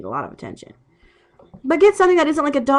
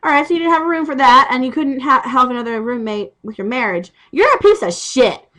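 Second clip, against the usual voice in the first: mock outrage; 2 semitones higher than usual. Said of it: "I'm sitting here going".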